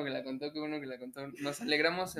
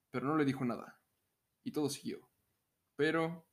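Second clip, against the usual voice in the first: announcer-style narration with deliberate pauses; voz de locutor. Pretend. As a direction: read it out in measured, evenly pitched phrases. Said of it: "la voy a leer con mi voz de locutor". (voz de locutor, pausada y pareja)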